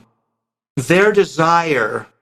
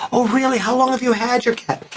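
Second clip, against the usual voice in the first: excited; 11 semitones higher than usual. Shown as a demonstration. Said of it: "friendly chat demo".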